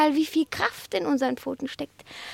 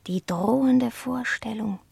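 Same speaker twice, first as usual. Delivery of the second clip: hushed confession; 3 semitones lower than usual. Acted. Cat's dark confession, hushed.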